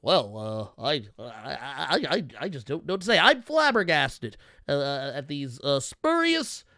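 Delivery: lightly voiced, stammering, prim indignation; stuffy flustered white guy. Mocking Eddie Murphy's white-guy bit, lightly stammering. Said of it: "He's like".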